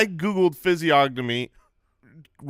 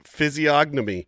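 slow careful pronunciation. Shown as a demonstration. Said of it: "That's not a word".

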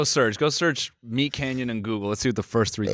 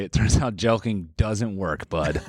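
deadpan one-liner; 3 semitones lower, slower than usual. Pretend. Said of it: "answering everything like a shitty one-liner".

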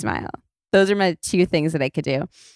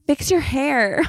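mock heckle in a higher pitch; higher-pitched imitation of someone shouting; imitated photographer shouting; 8 semitones higher, slower than usual. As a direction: call out like a bossy photographer. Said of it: "there's just shouting".

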